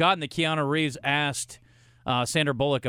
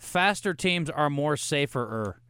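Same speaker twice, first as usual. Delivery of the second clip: mock dumb paraphrase; slower than usual. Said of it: "let me just paraphrase that".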